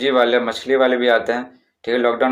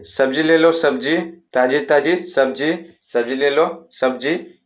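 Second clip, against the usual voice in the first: slow sing-song vendor cry, only lightly raised; vegetable seller's call; slower than usual. Shown as a demonstration. Teacher shows class the vegetable seller's call, mild sing-song cry. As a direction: call out your vegetables down the lane. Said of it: "इस तरह से चिल्लाएंगे, चिल्ला चिल्ला कर बोलेंगे".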